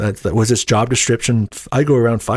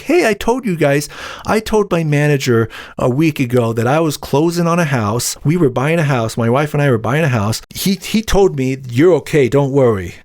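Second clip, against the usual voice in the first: higher-pitched, aggrieved protest; retold indignant protest; 4 semitones higher than usual. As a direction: act out protesting to the bosses. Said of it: "I was pissed because I'm just like".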